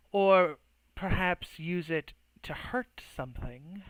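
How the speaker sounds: slow, lightly cheeky suggestion. Acted. Druid's agent needling the mage, cheekily. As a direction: needle him with a leisurely jab. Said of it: "She says rather cheeky".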